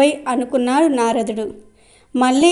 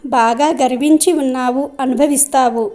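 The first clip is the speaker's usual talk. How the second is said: angry threat. Acted. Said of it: "వాయుదేవునికి చెప్పలేనంత కోపం వచ్చింది".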